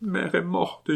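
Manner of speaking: put-on a little girl whimpering the truth; whimpering child. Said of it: "gémit l'enfant". (l'enfant gémit, voix très aiguë et douce)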